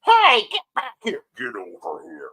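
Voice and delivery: hammed-up yell that drops deep at the end; acted yell. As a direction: play a story yelling after its writer. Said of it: "the first story will yell".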